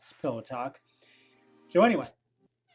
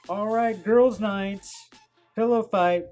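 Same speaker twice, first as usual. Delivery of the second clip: playful excited joke; 7 semitones higher, 4 dB louder, slower than usual. Pretend. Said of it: "joking, of course".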